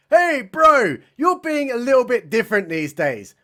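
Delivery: mock pep talk. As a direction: hail a bro with exaggerated concern. Starman's pep talk voiced.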